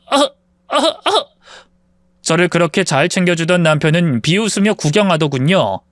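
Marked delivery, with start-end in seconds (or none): 0.1-1.3 gasping for air. Acted. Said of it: "천식 증상이 와서".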